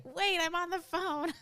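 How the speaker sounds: loud, high-pitched protest; exasperated yell. Retold or imitated. Teen to mom dialing during the call, exasperated yell. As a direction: call out urgently to whoever picked up. Acting out interrupting mom's dialing.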